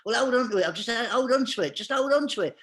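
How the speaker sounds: acting out a harried helper; urgent coaxing. Urging desperate friend to wait.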